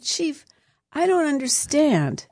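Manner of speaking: put-on high, lively Italian accent, talking with hands; Italian-flavoured mock question to the chief. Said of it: "And I did it like this".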